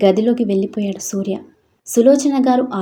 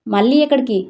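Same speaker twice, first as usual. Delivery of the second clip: shouting; 3 semitones higher, 4 dB louder than usual. Acted. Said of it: "అంటూ ఆయన అరవటంతో".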